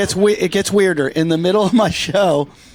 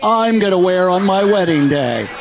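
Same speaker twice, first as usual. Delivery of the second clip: dreamy man. Retold or imitated. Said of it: "have you ever heard a man".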